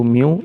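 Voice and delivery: म्यू as one syllable, "myoo"; showing pronunciation. Shown as a demonstration. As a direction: model म्यू with a long "oo". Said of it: "इस तरह से पढ़ते हैं इसको". (म्यू को एक ही ध्वनि में, लंबे "ऊ" के साथ)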